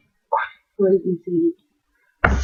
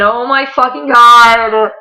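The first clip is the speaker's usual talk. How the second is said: drawn-out fangirl gush; 2 semitones higher, 4 dB louder, slower than usual. Real, not acted. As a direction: gush it slowly, overcome with fandom. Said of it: "I'm sorry if I fangirl".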